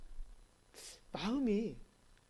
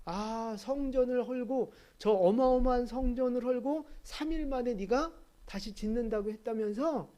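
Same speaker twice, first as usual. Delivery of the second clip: mocking; 2 semitones higher than usual. Passers-by taunting Jesus about the temple, mocking. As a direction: jeer with feigned wonder. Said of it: "조롱하는 거예요".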